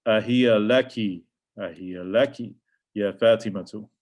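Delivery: Ahiya laki drawn out slowly; slow Arabic example. Shown as a demonstration. Teacher models the phrase for the class, slowly. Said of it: "So we would say".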